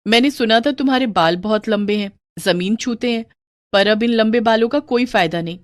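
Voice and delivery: lightly voiced woman offering mock sympathy; pitying sister-in-law. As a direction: commiserate with the new bride. Voices sister-in-law feigning pity.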